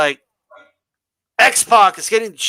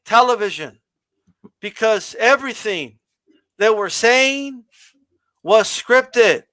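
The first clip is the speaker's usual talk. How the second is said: stiff scripted promo talk; slower than usual. Shown as a demonstration. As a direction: drag out each phrase like a bad wrestling promo read. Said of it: "like this".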